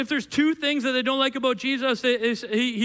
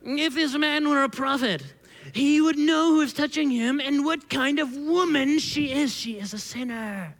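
Pharisee voice; 4 semitones higher than usual. Acted. Preacher doing the Pharisee on the sinful woman, hammed-up Pharisee voice. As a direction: ham up a judgmental Pharisee, higher at first. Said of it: "the Pharisee voice that I have".

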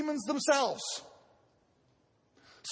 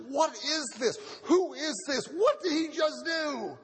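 amazed questions; 3 semitones higher than usual. Retold or imitated. Amazed crowd asks questions.

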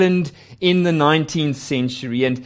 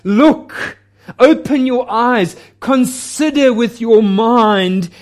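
higher ringing call; 6 semitones higher, 4 dB louder, slower than usual. Acted. God calling to his people.

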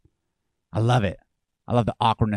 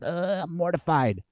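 slow, raised groan of horror; mock mortified; 5 semitones higher, 5 dB quieter, slower than usual. Pastor mimicking hypocritical churchgoers, mock mortified. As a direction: drag it out in exaggerated dismay. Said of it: "over here you're like".

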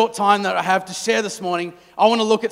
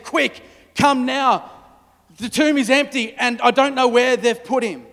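urgent plea; 4 semitones higher, 4 dB louder than usual. Acted. Mary urgently calls the disciples.

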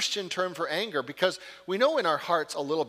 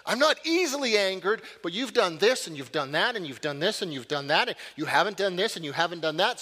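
mock self-justifier. Mocking a self-justifying angry person.

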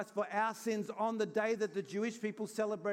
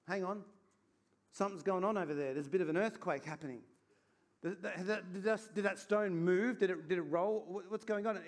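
hushed, halting puzzlement, a little lower; acted confusion; 3 semitones lower than usual. Disciples nearing the tomb after an earthquake, mildly acted confusion. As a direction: lightly act out dawning bewilderment, tripping over the words. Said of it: "from being distraught to really confused".

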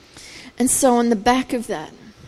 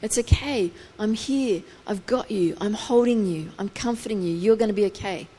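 soothing parent; 5 dB quieter than usual. Retold or imitated. A parent holding a crying baby, soft and soothing. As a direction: lull a frightened baby. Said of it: "comforting the baby".

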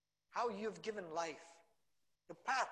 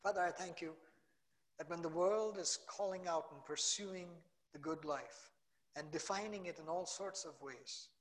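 earnest spoken prayer, swelling louder on key phrases; closing prayer; 4 dB louder than usual. Acted. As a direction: pray over the congregation, fervent and building.

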